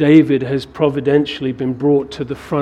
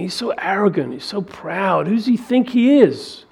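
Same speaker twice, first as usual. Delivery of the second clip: mocking, rising scoff; scornful gossip; 5 semitones higher than usual. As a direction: sneer at the upstart. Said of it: "probably they're saying".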